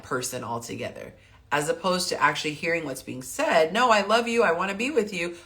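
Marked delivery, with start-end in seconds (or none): 3.7-5.4 higher-pitched, lightly acted reassurance; mild earnest protest. Coach voices a partner reassuring the other, mildly pleading. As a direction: lift the pitch into a mild plea.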